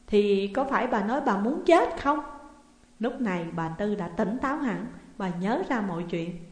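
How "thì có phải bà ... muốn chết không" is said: ordinary delivery, nothing marked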